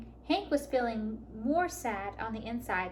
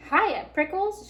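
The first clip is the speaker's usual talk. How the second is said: higher, louder and slow playful call; shouted; 7 semitones higher, 7 dB louder, slower than usual. A narrator's reading. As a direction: tease him from a distance. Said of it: "she shouted".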